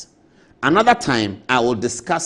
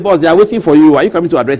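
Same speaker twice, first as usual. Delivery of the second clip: calling out; 7 dB louder, faster than usual. Retold or imitated. Aide calling the boss.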